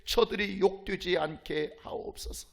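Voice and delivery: mild pleading, dropping into hushed breath; imitated tearful prayer. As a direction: retell a priests' plea, sinking away at the end. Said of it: "제사장들이 울면서 기도합니다".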